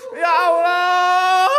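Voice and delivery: long, drawn-out wail; slow wailing exclamation; dismayed exclamation. Real, not acted. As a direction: stretch it out slowly in dismay. Reacting to something frightening, floating.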